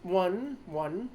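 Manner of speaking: lightly Australian-Kiwi gnome, offering slowly; Australian accent. Acted. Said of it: "Australian slash Kiwi accents".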